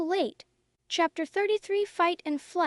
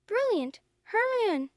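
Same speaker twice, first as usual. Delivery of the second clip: exclaiming; 6 semitones higher than usual. Acted. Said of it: "Harry exclaimed".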